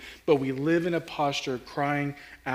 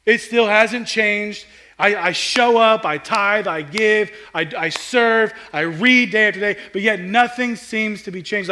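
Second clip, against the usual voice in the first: louder, frustrated venting, some words drawn out; weary complaint; 3 semitones higher, 6 dB louder than usual. Retold or imitated. Lackadaisical churchgoer venting about an unchanged life, frustrated. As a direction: complain like someone who has given up. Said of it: "this mindset and this posture of".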